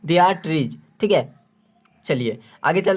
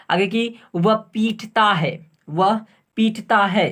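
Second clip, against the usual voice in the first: slow dictation; slower than usual. Shown as a demonstration. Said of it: "फिर से सुनिए".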